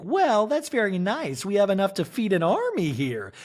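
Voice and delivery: lightly voiced Jennifer Tilly. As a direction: play the cooing hostess. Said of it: "Jennifer's like".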